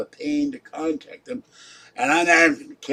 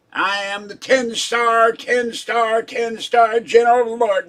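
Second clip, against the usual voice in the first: higher and louder, pompous indignant rant; ten-star general persona; 6 semitones higher, 5 dB louder than usual. Acted. Ranting at Mister Bell as the ten-star general, loud pompous tirade. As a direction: thunder your accusations like a self-appointed general of the Lord. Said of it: "you get into that persona".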